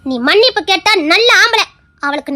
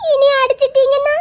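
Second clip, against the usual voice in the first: frightened wife questioning her husband; tearful fear; 3 semitones higher than usual. Acted. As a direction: ask it scared and teary. Wife crying, fearing a beating.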